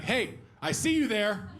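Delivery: high, hammed-up landlord demand; menacing landlord dog voice. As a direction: imitate a girlfriend accosting a dog like a debt collector. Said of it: "like a landlord talking to a tenant looking for money".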